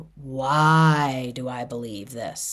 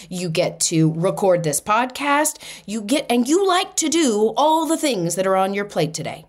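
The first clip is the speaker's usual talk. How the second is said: upbeat pep talk; 2 semitones higher than usual. Retold or imitated. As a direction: hype yourself up for the day. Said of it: "I said".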